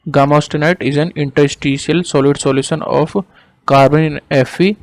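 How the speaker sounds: slow, measured dictation; word by word, with pauses for writing. Real, not acted. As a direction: dictate slowly for note-taking. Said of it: "देखो इसकी definition दोबारा से मैं बोल रहा हूँ".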